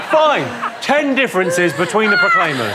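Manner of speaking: shouted through laughter; host mock-announcing a new round; laughing shout. Real, not acted. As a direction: call it out while still laughing.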